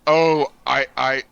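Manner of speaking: mock tragic lament; overacted dying Shakespearean actor; hammed-up death scene. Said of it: "and I'm like".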